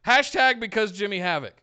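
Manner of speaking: high, loud, relishing recap; excited hype. Real, not acted. Co-host recounting a wild death match, excited hype. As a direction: punch out each phrase with rising excitement.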